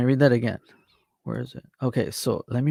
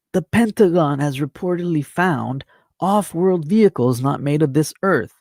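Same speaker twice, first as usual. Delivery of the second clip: headline reading; 4 semitones higher, 3 dB louder than usual. Real, not acted.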